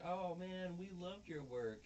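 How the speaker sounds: high, loud mock gushing; imitated gushing fans. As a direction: play two admirers fawning over a poet. Two admiring ladies in retold story.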